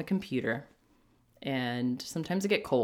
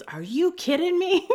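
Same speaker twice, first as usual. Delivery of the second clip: loud, very high-pitched incredulous outburst; mock outrage; 6 dB louder than usual. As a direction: imitate a partner confronting the driver, pitch shooting up. Girlfriend confronts driver, retold.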